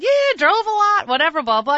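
offhand brush-off. Retold or imitated. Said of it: "And I said".

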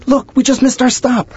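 high, loud angry yelling at his wife; retold screaming. Husband yelling at wife over missed stop, angry shout. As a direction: shout it at her in a panic. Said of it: "he screams at Stacy".

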